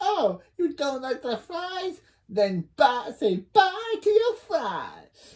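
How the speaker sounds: very high, slow, swooping voice. Retelling what a character says in a scene, in Microphone Wong voice. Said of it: "I miss doing this voice".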